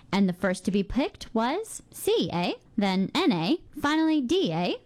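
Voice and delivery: each eh lifted up like a question; a joke spelling Canada out with upturned eh's; punchline eh. Shown as a demonstration. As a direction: land every eh with a playful rise. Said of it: "A classic joke demonstrating our lighthearted national trait".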